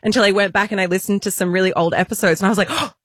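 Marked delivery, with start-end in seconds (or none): 2.7-2.9 mock-shocked, pitched up; a retold jolt of dismay at her own voice; shocked gasp. Hearing her old episodes, mock-shocked.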